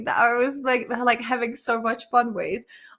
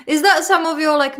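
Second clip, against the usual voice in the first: laughing question; 5 semitones higher, 7 dB louder than usual. Real, not acted. Teasing question through laughter.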